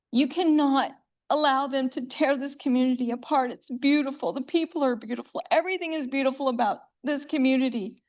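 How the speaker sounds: impassioned plea. Real, not acted. Resident pleading to city council.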